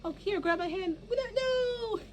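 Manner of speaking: high, anguished pleas; desperate pleading. Shown as a demonstration. Cadence reaching for her sinking sisters, high anguished pleading. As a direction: cry out trying to save them. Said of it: "when you go, like".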